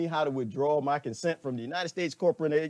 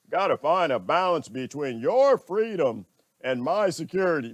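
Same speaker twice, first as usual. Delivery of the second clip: mocking impression; 4 dB louder than usual. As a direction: parrot the phrase with a sneer. Mimicking the brother's argument.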